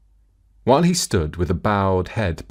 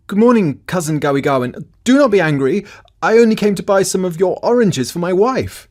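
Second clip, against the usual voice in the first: high, loud friendly call across to a cousin; 9 semitones higher, 6 dB louder than usual. Acted. Aponitolau calling up to Gawigawen, loud and high. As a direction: hail him loudly from a distance, keep it friendly.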